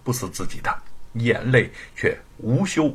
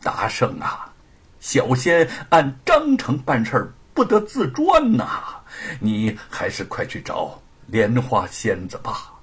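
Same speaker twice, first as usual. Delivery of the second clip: aggrieved. Acted. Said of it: "委屈地说".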